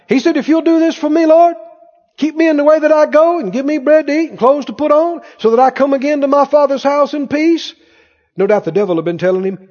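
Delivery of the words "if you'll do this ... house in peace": earnest vow. Acted.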